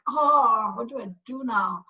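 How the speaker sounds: imitated outburst, loud opening "Oh"; mock exasperated yell. Mother imagining her reaction to spilled dinner, mock exasperated yell. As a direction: burst out on the first word, half-acted. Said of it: "And I would have yelled".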